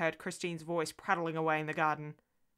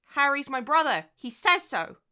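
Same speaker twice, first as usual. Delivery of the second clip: put-on raised, louder childish insistence; stubborn little girl; 8 semitones higher, 8 dB louder than usual. Daughter contradicting her mother, stubborn child's voice. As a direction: dig in as a small child.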